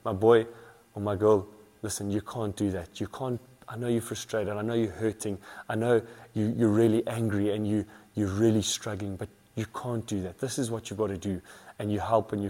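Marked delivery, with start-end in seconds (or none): 0.0-11.4 put-on softer, tender coaching of a child; a hint of a parent calmly correcting; gentle coaching parent. Parent quietly coaching a frustrated child, softer and tender. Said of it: "coach them and say".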